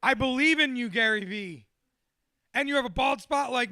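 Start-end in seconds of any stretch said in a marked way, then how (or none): 0.0-1.7 louder, fired-up cheer; excited. Retold or imitated. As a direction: hype yourself up, laughing. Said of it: "I'm like".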